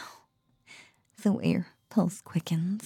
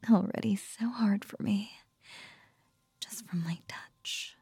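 right in your ear. Acted. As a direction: close whisper in the ear. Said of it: "from my voice in your ear".

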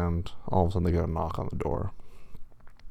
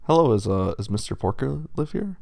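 wolf official voice; 5 semitones higher, 4 dB louder than usual. Acted.

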